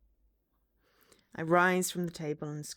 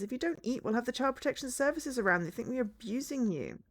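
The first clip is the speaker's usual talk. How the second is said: higher-pitched motherly nagging; scolding mother; 6 semitones higher than usual. Acted. Mother warns child about not eating, nagging. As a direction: nag in a raised mother's voice.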